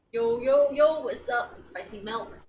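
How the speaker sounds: loud, breezy yo yo yo of a guy who belongs; casual dude greeting. Pretend. Sneaking past guards, acting like he belongs with a loud casual greeting. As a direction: announce yourself like a party regular. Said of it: "Act like you belong here".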